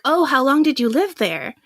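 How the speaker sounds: retold excited curiosity, understated; mildly excited. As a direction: play mock interest, a little lifted. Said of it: "they'd be really excited".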